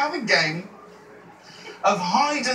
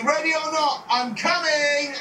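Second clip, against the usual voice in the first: calling out; 3 semitones higher than usual. Pretend. Seeker calls out to hiders.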